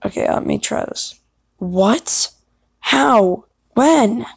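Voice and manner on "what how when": hint of a startled warrior; three firm, separate questions, pitch jumping up. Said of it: "use your warrior voice".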